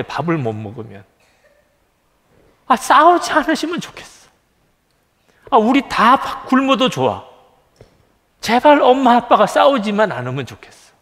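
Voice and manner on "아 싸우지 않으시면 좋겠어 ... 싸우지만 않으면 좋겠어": put-on higher, pleading little child's voice; child's pleading thought. Pastor voicing his childhood self begging parents to stop fighting, higher childlike plea. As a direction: beg like a small child scared of the fighting. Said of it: "그 어릴 때 제 마음속의 생각이에요".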